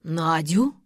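loud gasping echo of the name, rising; stunned old man repeating the name; shocked gasp. A narrator's reading. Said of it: "ахнул Тимофей Маркович".

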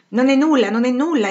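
high, emphatic dismissal; loud exclamation. A narrator's reading. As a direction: exclaim it firmly over the hubbub. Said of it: "esclamò". (esclamazione forte e decisa)

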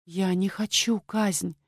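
terrified maid whispers she doesn't want execution; quiet whisper. Acted. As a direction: breathe it out barely audible. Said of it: "тихо шепнула Грета".

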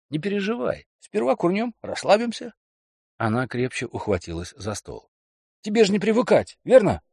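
high, wheedling man; coaxing boyfriend. Acted. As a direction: talk her into it lightly. Kelly coaxing.

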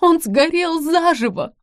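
высокий громкий вопль, замедленно; в ужасе выкрикни, срываясь вверх; истерика. Acted. Истерика, реплика продолжается. (жена в истерике о пожаре: громкий вопль)

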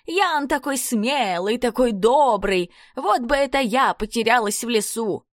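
high squeaky mocking girl voice; breathy cutesy giggly. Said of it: "песклявым голосом передразнивает".

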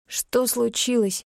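slow croaking Что with a sore throat; hoarse croak. Acted. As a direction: rasp out the question through a burning throat. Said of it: "Собственный голос прозвучал странно. Каркающие звуки".

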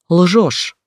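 sharp yelled accusation; shouting "you're lying". Acted. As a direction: hurl the word down the phone. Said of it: "заорала я в трубку".

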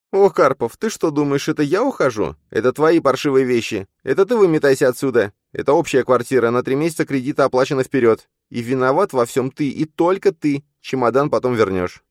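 high, loud contempt, stress on я and ты; scornful fury. Acted. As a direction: throw him out, hitting я and ты. Nastya throwing him out.

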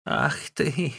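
old Wang cursing the sister-in-law in a high, put-on voice; old woman shouting. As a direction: screech the insult in a crone voice. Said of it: "крикнула старая Ван".

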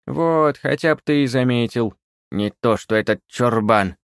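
high, loud flattered crone; old witch pleased at the compliment. A narrator's reading. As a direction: preen like a flattered old hag.

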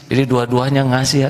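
laughing while telling it. Real, not acted. Recalling how both friends gave their fare away, laughing. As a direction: chuckle through the words.

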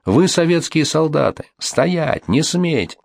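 high, urgent commanding yell; shouting orders. A narrator's reading. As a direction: bark it at fleeing soldiers. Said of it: "кричал лейтенант Пухнавцев".

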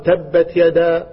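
تبت يدا drawn out very slowly, word by word; slow recitation. Retold or imitated. Teacher reciting slowly to a young pupil. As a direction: spell it out slowly for the child. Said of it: "فقال".

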